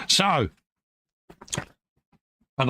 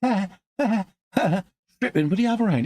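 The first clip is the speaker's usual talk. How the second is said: laughing; 9 semitones higher, slower than usual. Real, not acted. Laughing at friend's antics.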